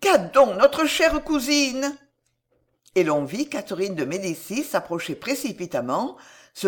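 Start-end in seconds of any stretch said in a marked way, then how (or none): 0.0-2.0 high, slow, worried question; raised pitch, full of dismay; trembling emotion. A narrator's reading. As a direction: ask in drawn-out, anxious concern. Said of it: "une voix douce et tremblante d'émotion".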